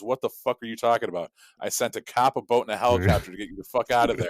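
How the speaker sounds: mock exasperation, rising in force; exasperated scolding. God answering the drowned believer, exasperated scolding. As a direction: scold incredulously for the joke's punchline.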